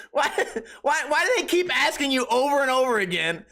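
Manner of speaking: high, laugh-filled question; laughing exasperation. Real, not acted. Podcaster baffled by repeated questions, laughing exasperation. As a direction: speak through real laughter.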